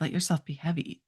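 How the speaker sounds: softly, letting the words sink; soft self-suggestion. Shown as a demonstration. Chiropractor showing the words she tells herself, softly. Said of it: "when you say to yourself".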